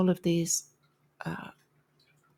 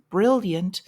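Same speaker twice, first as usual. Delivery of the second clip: slow, sarcastic emphasis; 4 dB louder than usual. Real, not acted. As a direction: draw out the praise with mild sarcasm. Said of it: "I say that sarcastically".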